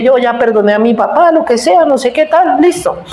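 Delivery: airy, high and offhand, brushing it all off; mock-casual high "I'm over it"; flippant dismissal. Retelling own flippant dismissal.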